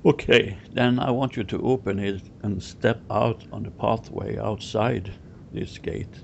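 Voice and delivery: measured step-by-step guiding; walk them through each imagined action, pausing between; guided visualisation. Real, not acted. Guide leading client out through the gate, guided visualisation.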